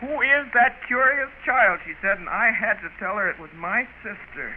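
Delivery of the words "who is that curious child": slow, pointed imitation of a lady's question; mimicked disdain. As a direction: draw it out as if appalled. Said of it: "the way she said it".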